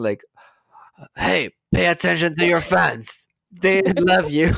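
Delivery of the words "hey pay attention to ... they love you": put-on Lindsay's weird accent. Reading Lindsay's comments in her odd accent. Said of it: "I just read them in her accent".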